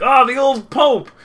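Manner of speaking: high, loud jolly greeting; cheery mock greeting. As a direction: greet him like an old pal. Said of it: "and be like".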